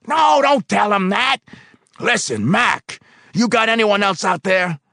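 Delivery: high, loud phone rant; angry phone call. Acted. Foreman shouting down the phone to personnel. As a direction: bark into the phone.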